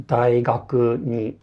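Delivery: "daigaku ni" slow, first mora low, the rest and "ni" high; low-high pitch accent. Shown as a demonstration. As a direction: demo "daigaku ni" rising after the first beat. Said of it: "first pitch is low and all the remaining pitch are high".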